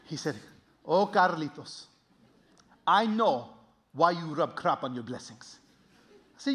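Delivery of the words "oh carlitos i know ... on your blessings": put-on slow, accented fatherly voice; wise immigrant dad. Dad answering his son's question, slow and knowing. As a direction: speak slowly as a knowing father.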